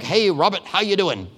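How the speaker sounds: lightly imitated Boston greeting; friendly mock Boston accent. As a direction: greet him with a hint of Boston. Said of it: "he's got that Boston thing going on".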